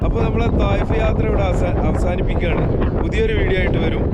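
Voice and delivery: bright, high vlog farewell; upbeat sign-off. Real, not acted. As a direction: wrap it up cheerfully. Signing off the vlog.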